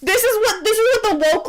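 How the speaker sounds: shouted through laughter; half-laughing exasperated yell. Real, not acted. Scene partner cracking up, laughing shout.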